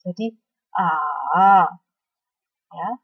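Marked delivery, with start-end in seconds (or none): 0.7-1.7 slow "A" dipping down then rising again; third tone A. Shown as a demonstration. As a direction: let "A" sink low and climb back up. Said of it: "turun ke bawah kemudian naik lagi".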